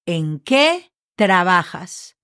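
"¿En qué trabajas?" said slowly and clearly, each syllable separate; slow model phrase. Shown as a demonstration. Teacher showing students the question, slow and clear. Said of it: "And then question mark".

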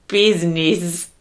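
slow, drawn-out "business" as "BEEZ-neez", lightly Italian-American; Italian-American accent. Shown as a demonstration. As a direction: attempt an Italian-American "business", stretching the "bee". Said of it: "Do your best American Italian accent".

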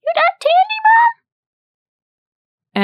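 put-on very high, loud little-kid squeal; little child's voice. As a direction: pipe up like a small boy. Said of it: "you heard this little voice".

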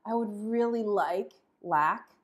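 "I would really like lack" slow and wanting; lack energy. Shown as a demonstration. Teacher contrasting two energies, slow wanting longing. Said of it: "can you feel the difference between".

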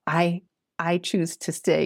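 slow, hushed, humble declaration. Acted. Jeremiah reminding the Lord he stays, humbly. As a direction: say it simply, trailing into near-whisper. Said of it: "in his humble way".

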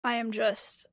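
loud, hyped and buzzing; fired up on coffee; too much caffeine. Real, not acted. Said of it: "I am caffeinated right now".

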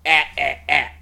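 short "Ah" repeated, the front vowel of rat; separate, repeated "Ah" as a vowel demo; isolated vowel drill. Shown as a demonstration. Actor drilling the dialect vowel, short isolated "Ah". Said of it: "the word rat in an English dialect".

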